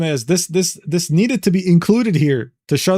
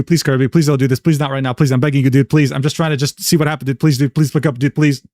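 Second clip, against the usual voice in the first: lower, pressed repeated begging, lightly acted; lower mock begging; 4 semitones lower than usual. Streamer reading friend's messages to Kirby, lower mock begging. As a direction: plead on and on in a lowered put-on voice. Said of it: "Perfect would continue".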